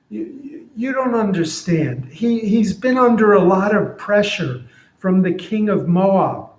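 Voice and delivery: donkey making excuses for its master; defensive donkey. Retold or imitated. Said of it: "So here's what I'm imagining".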